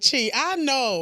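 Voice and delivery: slow, drawn-out mocking voice; imitating diners recognizing her, slow and teasing. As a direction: stretch it out like gossiping diners. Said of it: "restaurant like".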